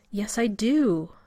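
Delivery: slow, firm refusal; stubborn insistence. Acted. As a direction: dig in your heels. Rodney refuses to leave.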